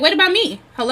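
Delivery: playfully indignant hello; mock-offended woman left unsatisfied; mock complaint. Voicing neglected woman.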